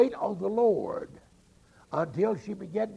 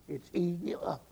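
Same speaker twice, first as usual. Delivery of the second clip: whispered; 4 dB quieter than usual. Retold or imitated. Retelling neighbor dying of cancer.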